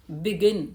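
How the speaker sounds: teacher demonstrating begin in two syllables. Shown as a demonstration. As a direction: begin sounded out as two beats, be-GIN. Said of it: "दो बार टूटे".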